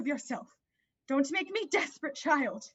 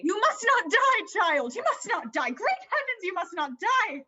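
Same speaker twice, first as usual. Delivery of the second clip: weeping; 5 dB louder than usual. Acted. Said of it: "Why do you weep so frightfully".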